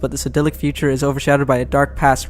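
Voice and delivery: fast, dramatic trailer narration; trailer voiceover. Pretend. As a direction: read it like a movie trailer in one breath. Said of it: "I got it all".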